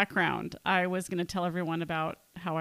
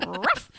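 playful dog bark; 2 semitones lower than usual. Pretend. Imitates a dog after calling herself mutt.

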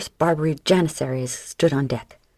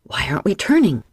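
yelling; 3 dB louder than usual. Acted. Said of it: "the gunner yelled".

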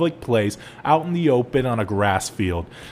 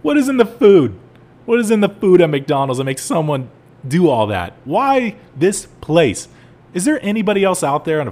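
loud, much higher, disbelieving outburst; outraged; 5 semitones higher, 6 dB louder than usual. Real, not acted. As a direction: shout the question at the world. Outraged rant about McDonald's.

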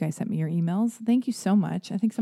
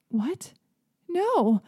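higher, rising alarm; shocked mom; 10 semitones higher than usual. Retold or imitated. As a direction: realize the purse is gone. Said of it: "she was like".

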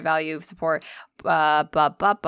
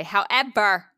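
abruptly forceful delivery; aggressive; slower than usual. Real, not acted. Podcaster starting shout-out caveat, accidentally aggressive. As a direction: push the word out too hard. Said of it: "That was really aggressive".

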